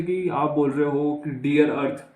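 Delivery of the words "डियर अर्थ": डियर अर्थ said as two words, "dear earth"; sound-alike mnemonic. Shown as a demonstration. Teacher giving a memory trick, डियर अर्थ as two separate words. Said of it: "ये sound कर रहा है ना".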